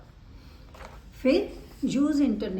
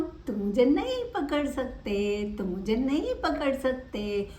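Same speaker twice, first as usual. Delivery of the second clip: teasing cat; 2 semitones higher than usual. Acted. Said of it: "बिल्ली बोली".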